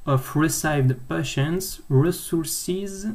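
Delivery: halting English reading in a French accent; self-mocked English accent. Real, not acted. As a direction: slowly sound out English with French-accented vowels. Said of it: "avec mon super accent anglais".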